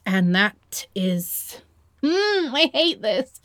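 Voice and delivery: whispered slowly, trailing off. Acted. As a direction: let it fade into a whisper. Trailing off, embarrassed.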